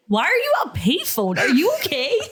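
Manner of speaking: mock alarm, pitch climbing at the end; alarmed concern. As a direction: imitate a baffled, worried friend. Retold alarmed friend on phone.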